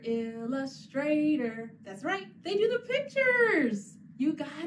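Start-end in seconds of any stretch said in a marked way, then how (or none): 0.0-1.7 slow, careful illustrator; slow model word. Shown as a demonstration. Teacher models the word for children, slowly. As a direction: sound out illustrator slowly for kids.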